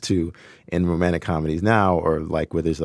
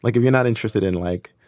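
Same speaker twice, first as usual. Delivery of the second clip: laughing. Real, not acted. Laughing at own opinion.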